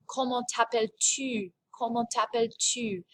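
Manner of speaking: "comment t'appelles-tu" ending on a French U. Shown as a demonstration. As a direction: model "tu" with a French U, falling at the end. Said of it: "practiced that good French U".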